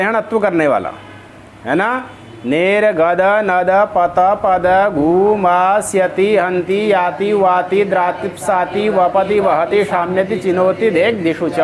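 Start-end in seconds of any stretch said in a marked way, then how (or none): 2.4-11.6 slow, measured chanting of the rule; sutra recitation. Acted. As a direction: recite the sutra like a memorized verse.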